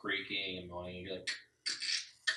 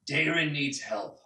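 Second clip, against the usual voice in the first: slow, higher and louder bear voice; urgent bear; 6 semitones higher, 6 dB louder, slower than usual. Acted. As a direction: lean hard on the name. Bear pleads.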